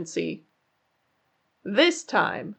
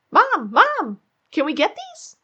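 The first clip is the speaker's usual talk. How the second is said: high, eager pleading little rabbit; child voice begging; 7 semitones higher than usual. A narrator's reading. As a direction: beg mom for the cool underwear. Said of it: "Jasper pleaded".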